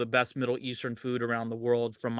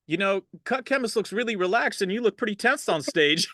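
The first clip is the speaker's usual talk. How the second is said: quoting dad; 6 semitones higher than usual. Retold or imitated. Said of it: "there was one time where he said".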